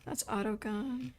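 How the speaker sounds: whispered under the breath; breathy whisper to self. Real, not acted. Streamer hunting the shotgun, whispered. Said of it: "whispered search for shotgun".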